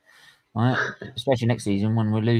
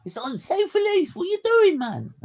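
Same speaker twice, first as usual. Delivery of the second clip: retold furious shout. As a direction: yell at the stewards like you've lost it. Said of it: "lose my shit".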